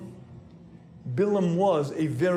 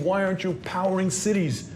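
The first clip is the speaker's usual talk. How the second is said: demanding inner voice; 3 semitones higher than usual. Retold or imitated. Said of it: "a voice inside that's saying".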